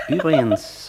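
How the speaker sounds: a slow word through a laugh; amused, laughing aside. Acted. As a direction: let the laugh spill into the word. Master laughs despite himself.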